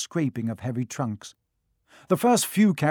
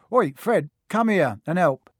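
calling out; 4 semitones higher, 5 dB louder than usual. A narrator's reading. Twin calls his brother.

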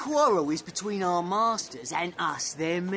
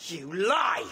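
angry shout. Acted. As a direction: fling the insult. Brawl starts.

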